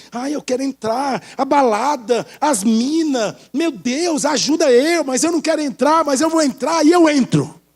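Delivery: lightly hammed-up inner struggle; mock-anguished pleading that rises as it goes; tempted believer. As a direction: waver between craving and resisting, building to giving in. Acts a tempted believer wavering.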